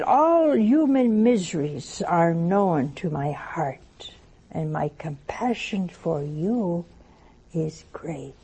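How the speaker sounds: solemn sacred reading. Acted. Reading Jesus's words to the congregation, solemn and slow. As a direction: let each phrase settle, slowly.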